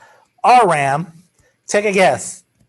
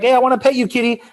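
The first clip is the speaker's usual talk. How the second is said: higher, coaxing pet talk; coaxing the kitty; 6 semitones higher, faster than usual. Retold or imitated. Teacher acting out coaxing a cat, lightly higher. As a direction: sweet-talk a shy cat. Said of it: "you go up to him like".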